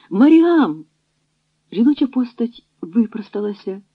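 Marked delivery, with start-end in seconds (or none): 0.1-0.8 a hoarse cry across the snow; hoarse shout. A narrator's reading. Ілля calls out to Маріам across the camp, a loud hoarse shout. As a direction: call her name out, loud and higher. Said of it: "хрипко вигукнув".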